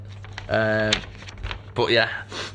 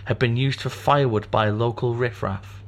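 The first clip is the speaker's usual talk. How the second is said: story narration. Acted. Reads story aloud.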